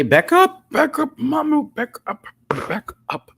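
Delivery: high, loud back-up calls; urgent command. Real, not acted. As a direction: shoo the cat off sharply. Ordering cat away.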